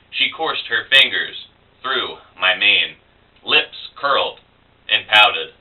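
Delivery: measured, dramatic spoken-word delivery; poetry reading. Acted. Poet reads First Bloodshed to blog viewers, dramatic poetry reading. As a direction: recite it line by line with deliberate pauses. Reads own poem aloud.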